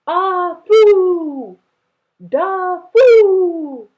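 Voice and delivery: high, loud calls from afar; calling out. Acted. Grandfather searching for the twins, calling loudly. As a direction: call the lost children's names. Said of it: "the voice cried".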